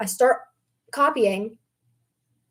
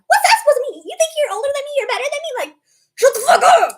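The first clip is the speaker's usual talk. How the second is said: put-on higher, indignant mean-girl whine; mock offended girl; 10 semitones higher, 5 dB louder, faster than usual. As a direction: sneer like an offended classmate. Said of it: "And they're like".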